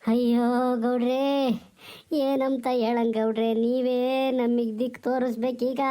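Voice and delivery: put-on old village grandmother wailing for her lost husband; old woman's lament. Old granny crying to the village for her missing husband, wailing lament. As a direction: plead and wail like a grieving old granny.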